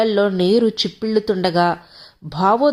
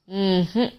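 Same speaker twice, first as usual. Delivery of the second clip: scornful snort-laugh; 4 dB quieter than usual. A narrator's reading. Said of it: "అంటూ నవ్వాడు".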